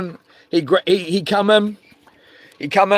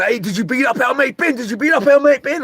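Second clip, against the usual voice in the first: confronting; 6 semitones higher than usual. Retold or imitated. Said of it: "the first two guys were waiting".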